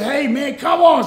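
retold protest, punched on the last words; getting mad. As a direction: argue like you're fed up. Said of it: "So I'm getting mad".

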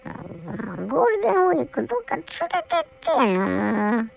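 whiny plea. Real, not acted. Whining to be taken out.

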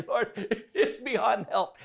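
chuckling through the words; amused aside with laughter; laughing. Real, not acted. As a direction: laugh as you tell it.

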